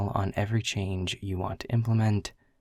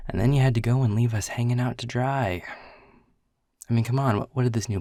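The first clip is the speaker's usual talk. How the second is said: louder, higher mock grievance; mock outrage; 4 semitones higher, 6 dB louder, faster than usual. Boss mock-scolding departing colleague, louder and higher. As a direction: scold them for leaving, half joking. Mock complaint about leaving.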